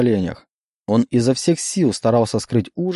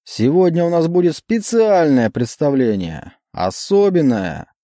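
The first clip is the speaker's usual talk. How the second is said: emcee; 5 semitones higher than usual. Acted. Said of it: "продолжал конферансье".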